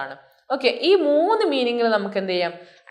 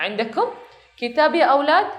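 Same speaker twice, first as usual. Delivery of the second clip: put-on teacher asking children; 5 semitones higher than usual. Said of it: "ഒരു teacher ചോദിക്കുകയാണ്".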